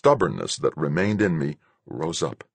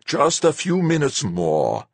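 high, slow, softened plea; coaxing, almost pleading; 9 semitones higher, slower than usual. A narrator's reading. Fuchs begs the pilot to hold on, almost pleading. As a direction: plead gently, stretching the words. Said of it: "almost pleading".

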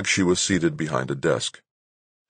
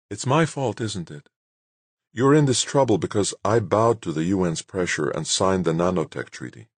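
higher-pitched start, settling as she explains; lightly voiced female leader, regretful; 4 semitones higher than usual. Bonai blames herself to Doug over the treaty, lightly voiced regret. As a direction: gently give a hint of a woman taking the blame.

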